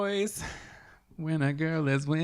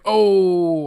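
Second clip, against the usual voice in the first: shocked gasp; 5 semitones higher, 10 dB louder than usual. Retold or imitated. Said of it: "everybody else was like".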